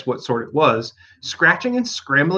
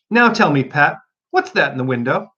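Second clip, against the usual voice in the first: rabbit voice. Acted. Rabbit questions Pat.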